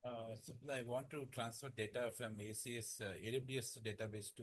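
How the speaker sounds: faint voice far from the mic; speaking too far from the microphone; barely audible. Real, not acted. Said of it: "Your voice is very low".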